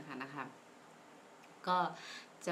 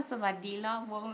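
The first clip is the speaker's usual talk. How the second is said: sarcastic greeting; 3 semitones higher than usual. Retold or imitated. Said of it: "มีประชดว่า".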